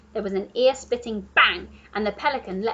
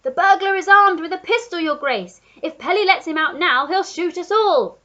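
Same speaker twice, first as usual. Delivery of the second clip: louder, higher alarmed giraffe warning; Giraffe shouting; 8 semitones higher, 9 dB louder than usual. A narrator's reading. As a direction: call it down urgently. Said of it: "The Giraffe shouted".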